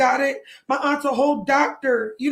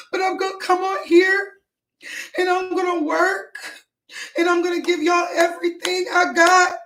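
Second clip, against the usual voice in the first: raised pitch, holding back real tears; tearful; 4 semitones higher than usual. Real, not acted. Streamer vowing to viewers to keep working, tearful. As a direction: push determined words out through crying. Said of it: "I'm sorry, I'm crying on live".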